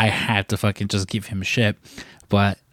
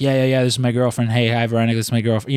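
quick, lightly mocking repeat of this is my girlfriend; teasing Frank; faster than usual. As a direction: rattle off this is my girlfriend fast, as a mild tease. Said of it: "you just hear Frank".

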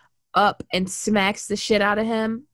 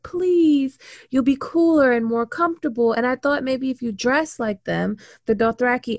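lightly voiced, higher pleading plea; pleading Dany; 4 semitones higher than usual. Dany begging her brother to wear Dothraki clothes, pleading. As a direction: coax him sweetly like a little sister. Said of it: "And she's like".

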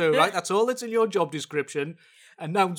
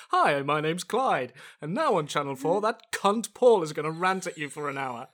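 announcer impression; 2 semitones lower than usual. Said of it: "I can do".

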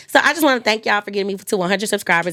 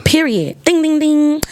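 excited game host; 8 semitones higher, 5 dB louder, slower than usual. Acted. Host confirms correct answer.

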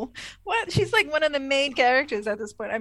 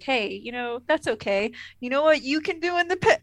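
condescending Picard; 3 semitones higher than usual. Retold or imitated. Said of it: "Daddy Picard is like".

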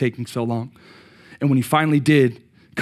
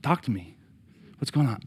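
much softer, hushed puzzled asking; wife's puzzled question; 7 dB quieter than usual. Retold or imitated. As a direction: gently press him to speak. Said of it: "And she's just like".

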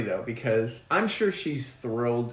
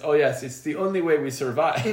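lightly voiced Russian accent; Russian guy; 3 semitones higher than usual. Russian scientist answering the main character, light Russian accent. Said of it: "this other Russian guy".

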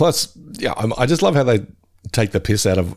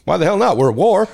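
excited shout; 10 semitones higher than usual. Retold or imitated. Quoting Jimbo.

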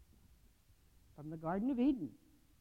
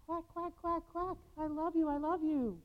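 higher, gentle calling quack and love; calling like mother duck; 6 semitones higher than usual. Acted. Preacher voicing Jesus calling the ducks back, tender. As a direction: call the ducks home tenderly. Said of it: "Jesus is still calling".

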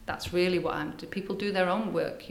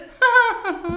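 a high, loud laugh; real giggle, much higher; high burst of laughter; 9 dB louder than usual. Real, not acted. Laughing at her own blisters.

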